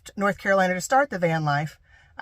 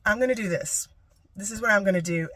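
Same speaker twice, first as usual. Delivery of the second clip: calm resolve. Retold or imitated. Telling dad the new boundary, calm and resolved. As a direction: set a boundary without anger. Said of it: "Instead, I'm gonna be like".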